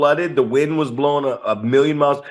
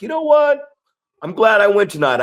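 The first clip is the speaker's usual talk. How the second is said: put-on excited kid; 8 semitones higher, 4 dB louder than usual. Kid telling his dad excitedly.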